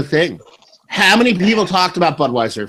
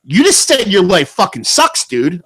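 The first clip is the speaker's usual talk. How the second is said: higher, exasperated comeback; mock-outraged, pitch raised; retold yelling; 3 semitones higher than usual. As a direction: re-enact yelling at a driver. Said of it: "I'm yelling at him like that".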